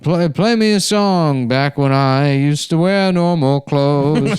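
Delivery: slow, high, mocking old man plea; drawn-out pleading old man; old gay man voice. Voicing old gay man, comic.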